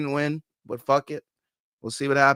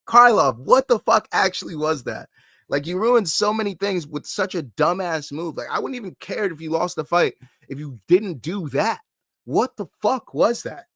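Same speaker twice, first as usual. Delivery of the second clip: exasperated rant; 4 semitones higher than usual. Real, not acted. Streamer scolding the fighter who blew the fight, angry disbelief.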